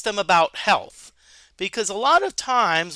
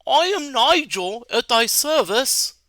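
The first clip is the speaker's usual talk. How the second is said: higher, slow, grand wizard greeting; noble wizard; 4 semitones higher, slower than usual. Acted. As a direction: greet like a courtly mage bowing. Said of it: "You meet a noble wizard".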